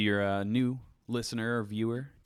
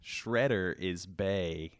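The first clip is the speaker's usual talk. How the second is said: slow drawled reading; exaggerated southern accent; much slower than usual. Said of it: "I'm overdoing it".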